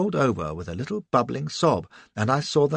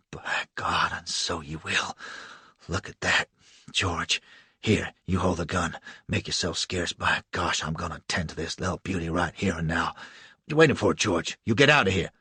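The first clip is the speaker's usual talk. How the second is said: lower, rough bully voice giving orders; lower, coarse, bossing George away; gruff slave catcher; 6 semitones lower than usual. Acted. Tom threatens, dismisses George.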